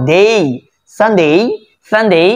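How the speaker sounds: সানডে with short "san" and stretched "deyy"; drawn-out ending. Shown as a demonstration. Teacher modelling where to stretch, drawn-out ending. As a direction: hold the ডে of সানডে long. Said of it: "এখানে টান হবে".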